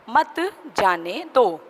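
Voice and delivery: मत grouped with जाने दो as a prohibition; मत joined to जाने दो. Shown as a demonstration. Teacher reading after the comma, मत leading into जाने दो. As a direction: start afresh on मत, falling on दो. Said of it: "कॉमा लगा हुआ है".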